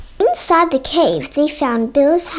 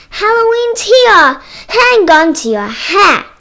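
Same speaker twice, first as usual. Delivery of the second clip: high, loud excited call; raised-voice storybook shout; shouted greeting; 5 semitones higher, 5 dB louder than usual. A narrator's reading. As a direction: call it out as if to someone across a yard. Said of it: "she shouted".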